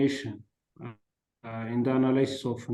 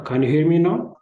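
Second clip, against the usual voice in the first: loud, high call into the mic; shouting on bad phone line; 5 semitones higher, 9 dB louder than usual. Real, not acted. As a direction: push the voice out to be heard. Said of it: "can you increase it a little bit?".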